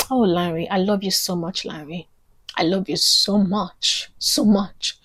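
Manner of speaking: soft, tender aside; sincere and hushed, full of gratitude; heartfelt affection. Real, not acted. Actor thanking her supportive friend Larry, tender.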